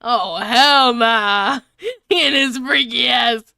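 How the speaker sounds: ordinary talk, nothing marked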